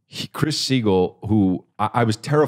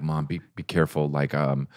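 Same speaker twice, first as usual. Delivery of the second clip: put-on softer, hushed child warning mom urgently; hushed kid warning; 5 semitones lower, 7 dB quieter than usual. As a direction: lean in and warn under your breath. Kid pulling mom aside, warning.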